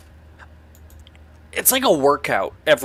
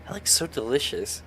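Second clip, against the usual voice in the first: whispered; 12 dB quieter than usual. Acted. Nate thanks Edmund for toast.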